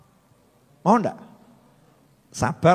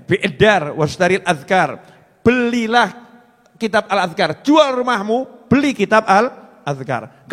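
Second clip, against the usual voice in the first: urging preacher; 3 semitones higher than usual. Acted.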